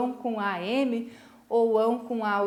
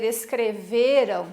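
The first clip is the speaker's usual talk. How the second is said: "escreveram" with the stronger syllable on VE; stress on VE; slower than usual. Shown as a demonstration. Teacher showing students the tonic syllable, stress on VE in "escreveram". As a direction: say "escreveram", leaning on the VE before a weak ending. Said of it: "percebam que a sílaba tônica é essa".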